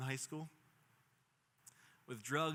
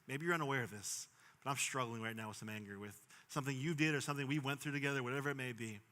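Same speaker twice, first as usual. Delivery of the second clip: gentle talk. Shown as a demonstration. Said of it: "sit down and say".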